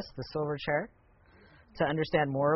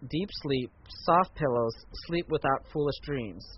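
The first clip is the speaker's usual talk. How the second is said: lightly voiced witch. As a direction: read the witch's lines with mild, understated menace. Reads the witch's speech aloud.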